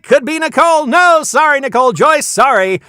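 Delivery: high, loud, suspense-milking play-by-play; frantic game-show announcer. Pretend. Host calls names on a spinning prize wheel, excited announcer. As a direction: shout each name as the wheel ticks past, stretching some.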